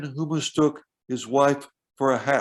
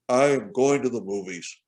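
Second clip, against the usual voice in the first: a touch of anger, a bit lower; mild anger; 3 semitones lower than usual. Shown as a demonstration. Lecturer demonstrating anger in prosody, mildly angry. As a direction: say it with a hint of anger. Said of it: "Or I could express anger".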